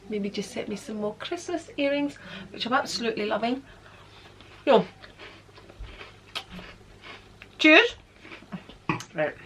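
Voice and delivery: talking through a mouthful; chewing while talking; mouth full. Real, not acted. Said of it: "I shouldn't speak with my mouth full".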